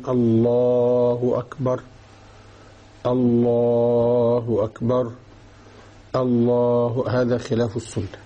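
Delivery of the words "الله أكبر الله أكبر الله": slow, stretched muezzin call of الله أكبر; الله أكبر sung out slowly, each vowel long and held; drawn-out call. Retold or imitated. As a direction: imitate the muezzin who drags out الله أكبر. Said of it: "لا كما يفعل بعض المؤذنين يقولون".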